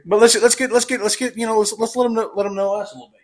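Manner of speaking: stuttering, repeating words. Real, not acted. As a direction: trip over the words, stuttering. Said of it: "Sorry about my stutter".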